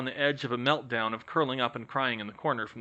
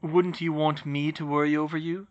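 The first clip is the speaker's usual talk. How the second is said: softer; 4 semitones higher than usual. Acted. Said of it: "He added more softly".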